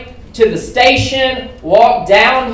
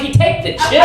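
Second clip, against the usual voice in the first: higher, disbelieving echo question; incredulous echo; 6 semitones higher, faster than usual. Retold or imitated. Comic questions panhandler's card reader, incredulous. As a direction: throw it back as a mock-amazed question.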